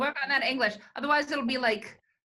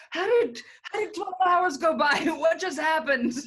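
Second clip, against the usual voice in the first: louder, higher, half-laughing "how did that happen"; baffled disbelief; 4 semitones higher, 4 dB louder than usual. Retold or imitated. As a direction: sound genuinely lost about the missing hours. Retelling her own confusion.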